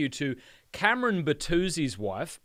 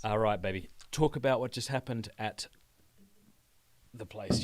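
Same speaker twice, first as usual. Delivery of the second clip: whisper; 3 semitones lower than usual. Real, not acted. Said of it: "whispers to wife on stream".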